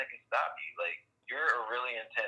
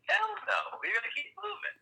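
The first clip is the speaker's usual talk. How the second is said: defiant cheer. Real, not acted. Rallying his friend to keep going, excited defiant cheer. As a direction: fire it up like a rallying cry.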